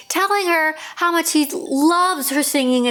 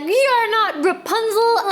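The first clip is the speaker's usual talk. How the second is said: higher, slower, with a crying catch; mock-tearful cry of dismay, higher and slow; shocked prince; 9 semitones higher, slower than usual. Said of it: "then he's like".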